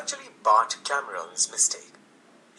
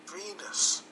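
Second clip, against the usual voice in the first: whispered; 7 semitones higher, 6 dB quieter than usual. A narrator's reading. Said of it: "He whispered".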